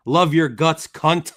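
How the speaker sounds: loud, with a hard, emphatic "cunt"; mean-sounding delivery. Acted. Host reading a friend's affectionate insult, sounding mean. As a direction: hit "cunt" loudly with a hard American vowel and final T. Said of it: "it's mean when I say it".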